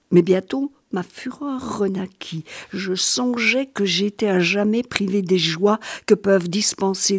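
hushed storyteller voice; story narration. A narrator's reading. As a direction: let the dark tale unfold gently. Reads the novel aloud.

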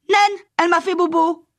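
put-on high, loud whining child voice; little girl telling her nanny the witch hurt her. A narrator's reading. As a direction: complain like a small child who got hurt. Sick child complains to nanny.

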